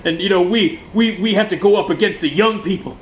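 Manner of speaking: imitating a tearful, whining frontman; hammed-up weepy speech; mock crying. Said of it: "God, he's crying, he's crying".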